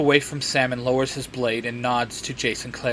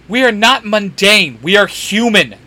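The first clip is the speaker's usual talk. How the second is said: loud, raised-pitch correction; indignant shout; 6 semitones higher, 6 dB louder than usual. A narrator's reading. Dean objects to being called mundane, shouting. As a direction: shout it back, insisting on each point. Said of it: "Dean shouts".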